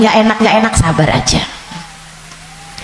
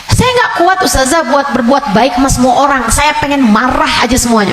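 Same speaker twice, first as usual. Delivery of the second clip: higher plaintive complaint; whining congregant; 5 semitones higher than usual. Retold or imitated. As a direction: whine about the prayers. (jamaah mengeluh, suara lebih tinggi)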